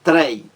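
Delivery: one firm, isolated "trei"; stressed syllable shown. Shown as a demonstration. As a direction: punch "trei" as the strong syllable. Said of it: "A mais forte".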